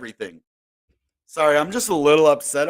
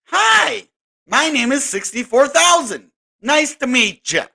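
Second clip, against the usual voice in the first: price personified; 8 semitones higher, slower than usual. Pretend. Price introducing itself.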